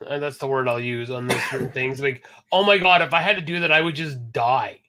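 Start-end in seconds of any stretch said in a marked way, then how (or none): 2.5-4.8 overdramatic "oh my God" complaint; triggered young person. Retold or imitated. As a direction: play up being mortified.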